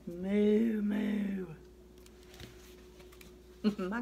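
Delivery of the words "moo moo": loud drawn-out moo; cow moo. Pretend. Reading to a child, doing a cow's moo. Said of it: "He can sound like a cow".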